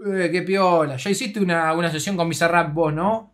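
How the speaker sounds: loud, eager chummy stranger; imitated pushy fan. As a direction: keep prying loudly, mock-impressed. Same fan keeps asking. (imitando fuerte a un fan curioso)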